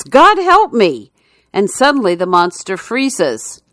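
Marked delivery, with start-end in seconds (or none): 0.0-1.1 much higher, slow panicked cry; terrified shout. Acted. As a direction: cry out in terror. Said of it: "The petrified atheist shouts".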